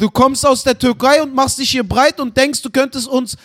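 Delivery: hammed-up indignant accusation; mock angry rant. Mock xenophobic rant at his child.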